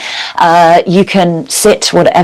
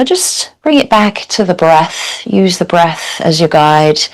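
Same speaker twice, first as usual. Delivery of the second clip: calm, measured yoga teacher's guidance with long pauses; guided meditation. Real, not acted. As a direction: guide them gently into stillness, leaving space between phrases. Leads a seated yoga meditation.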